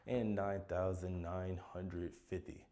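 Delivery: slow, drawn-out finishing-line delivery; slow triumphant wrap-up of a count; sound like you're done. Shown as a demonstration. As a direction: say it like the very last number. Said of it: "is what I would sound like if I was done".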